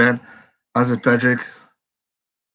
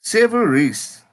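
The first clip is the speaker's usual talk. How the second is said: high, delighted call of the scorer's name; real excited admiration; 10 semitones higher, 4 dB louder, slower than usual. Real, not acted. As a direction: hail the player in high-pitched delight. Hailing the try scorer.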